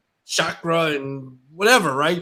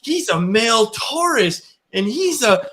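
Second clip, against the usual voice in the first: imitating his daughter; 8 semitones higher, slower than usual. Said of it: "She was like".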